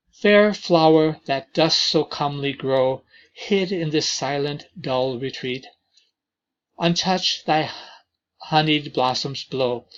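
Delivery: unhurried verse reading, each phrase set apart; poem recitation. Acted. Teacher reading To a Wild Honeysuckle to the class, poem reading. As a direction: read the lines gently as verse.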